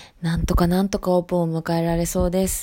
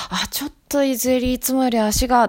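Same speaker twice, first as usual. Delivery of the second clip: imagined customer; 6 semitones higher than usual. Retold or imitated. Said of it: "と思ったら".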